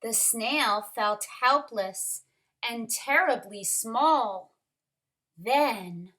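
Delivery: measured, expressive picture-book reading; story narration. A narrator's reading. Teacher reads a snail story to kindergarteners, expressive narration. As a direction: read it to little ones, pausing after phrases.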